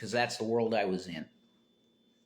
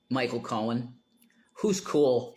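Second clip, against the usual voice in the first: whisper. Real, not acted. Aside about a guest.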